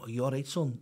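lightly imitated London old lady; a rough stab at a London accent; attempted London accent. Old lady approaching a stranger, attempted London accent. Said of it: "You know, that sort of accent".

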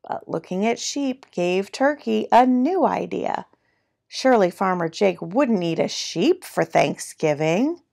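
animated picture-book narration, key words punched; lively storytime reading with swooping pitch; reading to children. A narrator's reading. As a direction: read it like a playful storyteller.

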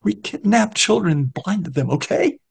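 high, strained confession rising on okay; the beggar confesses to Newman, high-voiced; beggar's yelled confession. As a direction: blurt the crime out, pitched high. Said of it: "The man yelled".

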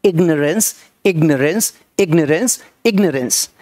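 इग्नोरेंस said as "IG-nuh-rence"; इग्नोरेंस with no "nore" in it; correct pronunciation. Shown as a demonstration. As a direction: say इग्नोरेंस with a short, weak middle syllable. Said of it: "सुन लीजिए एक बार".

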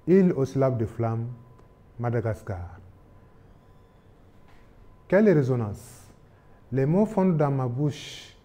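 slow, measured declamation with long pauses; poem recitation. Acted. Teacher reads a Madagascar poem to literature pupils, solemn declamation. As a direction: declaim each verse, emphatic openings falling away at line ends.

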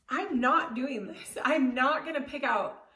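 stubborn, choked-up outburst; defiant inner rant. Retold or imitated. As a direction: dig in your heels and refuse, voice rising. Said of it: "And I just stood there like".

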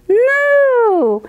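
loud high mooing cow. Acted. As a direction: moo like a cow. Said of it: "And the cow said".

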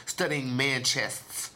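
drawn-out punchline; slow it down for the joke. Shown as a demonstration. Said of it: "Yeah, I'm saying".

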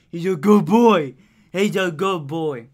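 put-on sing-song good boy; pet baby talk. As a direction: praise the cat like a baby.

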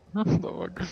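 amazed laugh, high and slow; laughing surprise. Real, not acted. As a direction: laugh out in disbelief. Teammate hit a super glide.

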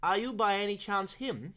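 respectful. A narrator's reading. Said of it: "he added most respectfully".

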